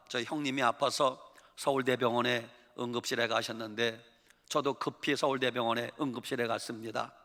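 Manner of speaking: ordinary delivery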